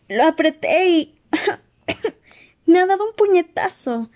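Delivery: panting. Acted. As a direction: gasp the words out after coughing. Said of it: "dijo jadeando".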